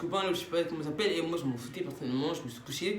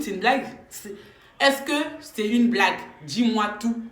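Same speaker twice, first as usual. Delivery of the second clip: louder, slower, exasperated questioning; indignant demand; 2 semitones higher, 4 dB louder, slower than usual. Retold or imitated. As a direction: demand the truth, fed up. Angry call to her friend.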